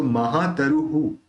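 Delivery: महातरुहु ending "ru-hu"; हु उच्चारण. Shown as a demonstration. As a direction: echo the u in a final hu of महातरुहु. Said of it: "उ मिला के हु करेंगे". (महातरुहु में विसर्ग का हु)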